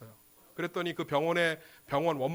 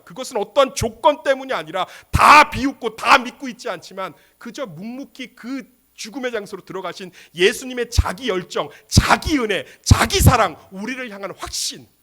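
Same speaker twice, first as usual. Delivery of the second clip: loud, emphatic, punched list; impassioned preaching; 6 semitones higher, 11 dB louder than usual. Acted. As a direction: build to a forceful pulpit climax. Preaches at full force.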